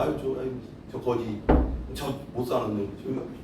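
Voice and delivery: mock scorn. Mocking the poor, example scorn.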